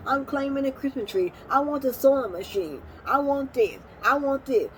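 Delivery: pushy mimicked "I want this" voice; mocking greedy relatives. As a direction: imitate relatives staking their claims. Mimicking relatives grabbing mom's belongings.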